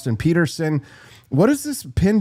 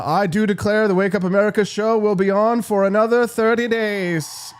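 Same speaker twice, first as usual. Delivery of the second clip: mock southern proclamation; 6 semitones higher than usual. Grand proclamation after fifty gifted subs.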